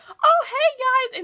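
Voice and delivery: awkward laughing greeting. Retold or imitated. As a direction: greet the dwarves with a nervous giggle. Regina awkwardly greets the dwarves.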